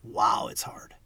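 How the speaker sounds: breathy whispered awe. Real, not acted. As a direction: whisper it, half to yourself. Awed reaction, unvoiced whisper.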